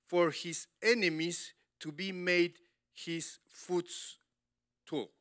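slow, deliberate Bible reading; solemn slow scripture read. Acted. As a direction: read the verse with weight. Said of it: "reading scripture slowly".

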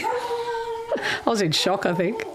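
slow, high laugh through the words; breaking into laughter mid-line. Real, not acted. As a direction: crack up while saying it. Laughing at own story.

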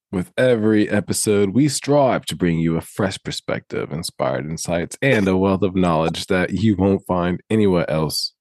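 put-on British accent creeping in halfway through; mock British accent. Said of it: "I like how the U K accent came out".

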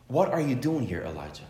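gently retold question, dropping away at the name; lightly voiced gentle question; gentle voice of God. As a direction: ask softly, sinking low on the name. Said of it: "gentle voice, in a, in a whisper".

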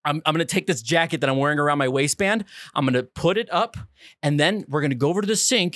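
lightly voiced no-nonsense fixer; a hint of a stern cleanup man; Mike from Breaking Bad. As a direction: take charge and lay out the plan, steadily. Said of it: "I become Mike Irwin Trout from Breaking Bad".

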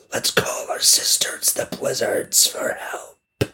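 unvoiced scheming whisper; whispering whirlwind. Whirlwind plotting to call the blizzards, whispered. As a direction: whisper the plan to call the sisters.

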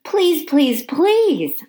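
high, tiny pleading squeaks; pleading hamster squeak. Acted. Hamster begging janitor to stay, squeaky pleading. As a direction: beg like a little hamster. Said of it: "I squeaked".

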